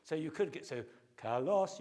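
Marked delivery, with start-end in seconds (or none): 1.2-1.8 "kalos" drawn out slowly in two pitched syllables; pitch accent up a fifth. Shown as a demonstration. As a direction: say "kalos" louder, half-sung, with musical pitch accent. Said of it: "you could go up a fifth".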